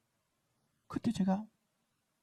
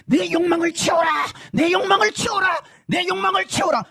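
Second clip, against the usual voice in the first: high, loud demanding shout; evil spirit shouting commands; raging monster; 7 semitones higher, 4 dB louder than usual. Retold or imitated. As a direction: roar like a mad monster. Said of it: "계속 소리를 질러야만".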